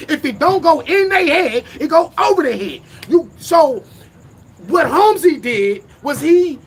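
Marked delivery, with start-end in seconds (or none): 0.1-2.8 higher, louder, punching "in" and "over"; louder for the back. Shown as a demonstration. Rapper repeats his motto for people in the back, louder. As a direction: repeat it so the back row hears. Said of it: "I'ma say that again for the motherfuckers in the back".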